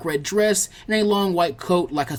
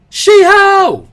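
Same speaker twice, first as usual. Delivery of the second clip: loud, high calling shout; 14 dB louder than usual. Acted. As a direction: call her name across the library. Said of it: "he shouted out".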